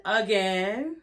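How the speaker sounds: "Again" dicho con subida burlona; mocking "again". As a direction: alarga "Again" con tono fastidiado. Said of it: "repeated sarcastic again".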